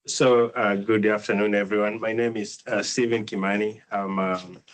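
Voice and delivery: raspy voice from a cold; hoarse voice. Real, not acted. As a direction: speak through a sore throat. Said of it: "excuse my voice, I'm still recovering from a cold".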